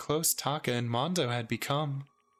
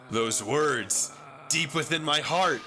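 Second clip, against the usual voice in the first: building up; 3 semitones higher than usual. Acted. Taka's voice rising, transforming.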